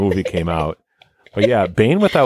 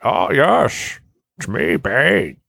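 put-on slow, drawling gypsy accent as Bane; 7 semitones higher, much slower than usual. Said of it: "He went with a gypsy accent".

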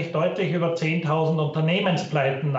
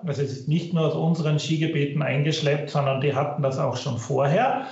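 low quality stream. Real, not acted. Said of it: "Bitte entschuldigen Sie die Tonqualität".

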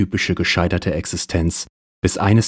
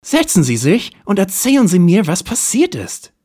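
much higher, louder put-on detective voice; hard-boiled detective; 13 semitones higher, 4 dB louder than usual. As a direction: play the cool private eye, hammed up.

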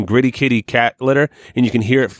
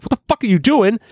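high outraged squeal; mocking Kaylee; 11 semitones higher than usual. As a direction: squeal it in disbelief. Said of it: "Kaylee was like".

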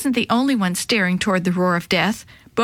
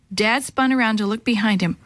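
usual speaking voice

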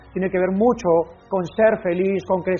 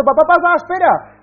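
put-on high, urgent little boy call; child calling; 11 semitones higher, 8 dB louder than usual. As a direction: stop dad before he leaves. Child calls father back.

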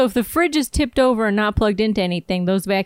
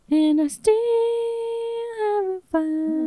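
dramatic reading; 13 semitones higher, slower than usual. Pretend. Finishing the quote dramatically.

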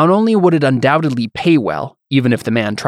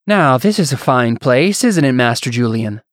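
musical voice. Acted. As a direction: savor each word like a pampered lord. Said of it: "a musical voice said".

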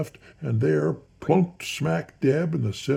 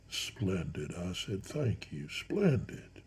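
hushed thanks; 4 semitones lower, 9 dB quieter, slower than usual. A narrator's reading. Narrator to newly quieted Counsel, hushed thanks. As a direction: murmur your approval.

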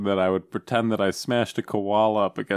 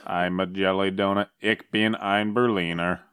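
Kennedy impression. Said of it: "Try doing a Kennedy".

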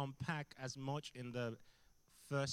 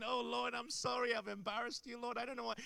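mock pleading prayer; 8 semitones higher than usual. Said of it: "So I'm sitting there going".

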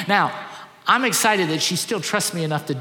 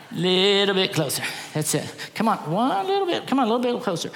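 coaxing daughter; 3 semitones higher than usual. Retold or imitated. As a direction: draw him in bit by bit. Daughter adjusting dad's position.

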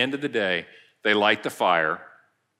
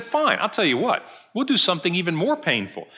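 higher-pitched imitation of frustration; mock exasperation, pitched up and pressing on; frustrated; 5 semitones higher than usual. Proconsul raising the threat to Polycarp, mildly frustrated. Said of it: "the proconsul gets frustrated".

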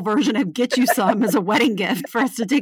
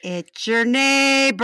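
neighbor voice; slower than usual. Retold or imitated. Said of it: "he said it just like that".

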